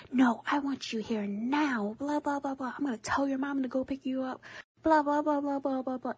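high, mock-nagging rant; imitated pissed grandma. Grandma demanding her grandchild come back, mock pissed rant. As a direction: mimic her scolding, pitched well up. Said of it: "And she was pissed".

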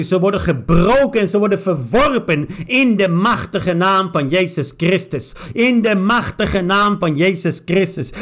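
declaring each line with force; preaching-style prayer with strong stresses; fervent prayer. Real, not acted. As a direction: pray it out, commanding in Jesus' name. Prayer over reading.

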